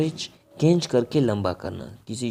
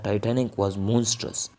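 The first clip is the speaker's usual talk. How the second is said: slow example; much slower than usual. Shown as a demonstration. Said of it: "teacher says example".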